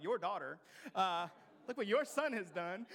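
mock exasperated parent; blaming parent. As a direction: point the finger at the spouse. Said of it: "this is the thing the parent does".

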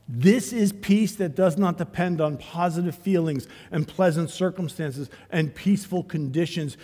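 ringing sermon voice; full-force preaching. Acted. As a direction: preach it out to the room.

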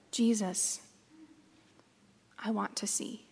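soft voice sinking into a whisper; hushed plea. Acted. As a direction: whisper a heartfelt wish, with pauses. Blind beggar's longing plea to Jesus.

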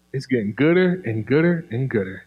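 playful ebonics phrasing; African American accent. Acted. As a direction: lean into casual ebonics. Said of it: "So excuse my ebonics".

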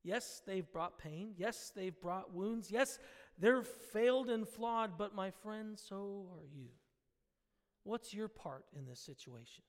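soft, tender rebuke to a grumbling friend; gently loving rebuke. Pretend. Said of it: "we can lovingly say".

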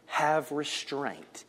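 soft, very slow; quiet repetition. Acted. Preacher repeating God's command to the congregation. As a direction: hush it slowly. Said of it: "repeats the Lord's words".

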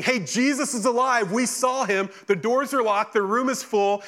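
high-pitched, lightly acted excited report; voicing excited friends sharing news; excited chatter. Voicing disciples' excited discussion.

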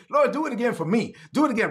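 fervent prayer. Acted. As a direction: cry it out to God, asking him to do it again. Congregation prays aloud together.

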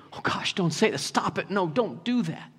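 softly acted, embarrassed pleading; hushed, humbled objection; humbled protest. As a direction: gently beg them to stop.

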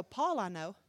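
demon voice. Retold or imitated. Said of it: "That demon will speak back".

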